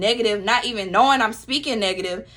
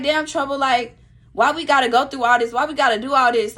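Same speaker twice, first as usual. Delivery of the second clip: higher-pitched, exasperated griping; imitated complaining; 4 semitones higher, 4 dB louder than usual. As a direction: act out a friend's weary protest. Acts out friend's complaint.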